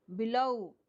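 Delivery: "बिलो" with a light बि and strong लो; stress on second syllable. Shown as a demonstration. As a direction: put the weight on लो in "बिलो". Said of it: "बी पे नहीं आएगा". ("बिलो" में बि हल्का, लो पर ज़ोर)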